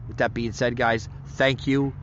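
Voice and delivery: breathless sign-off, winded; talking while short of breath. Real, not acted. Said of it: "I'm out of breath".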